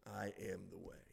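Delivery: a barely audible dying echo; fading whisper. Shown as a demonstration. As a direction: let it die away like a last breath. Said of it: "with his dying breath".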